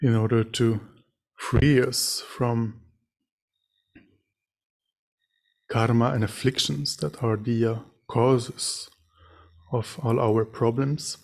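measured meditation teaching with long pauses; guided meditation. Real, not acted. Meditation teacher leading sitters to reflect on suffering and compassion, guided meditation. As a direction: guide them gently, phrase by phrase, leaving silences.

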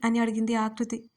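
plain reading voice

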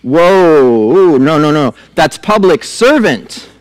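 drawn-out whoa, then slow correction; mock objection. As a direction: push back in playful protest. Acted retort to the haughty judge.

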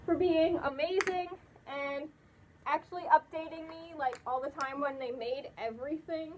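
muffled inside full mask; speaking behind thick padding; through a costume head. Real, not acted. Seen 4: Speaker wears an enclosed furry mascot head throughout the labelled words.

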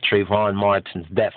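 "death" lifted at the end in a touch of scorn; lightly mock the phrase "Trayvon Martin's death"; mocking the phrasing. Preacher mocking the news wording to viewers, disdainful. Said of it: "I don't even like how they say it like that".

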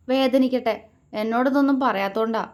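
sulky. Acted. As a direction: sulk at him for hiding things. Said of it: "അവൾ മുഖം വീർപ്പിച്ചു".

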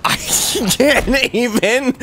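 high, slow words through laughter; laugh-choked and drawn out; laughing too hard. Real, not acted. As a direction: struggle to speak while laughing. Breaking up with laughter.

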